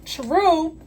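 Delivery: high laughing true, true; laughing agreement. Retold or imitated. Agreeing with the customer while still laughing. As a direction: agree through the giggles. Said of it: "And I was like".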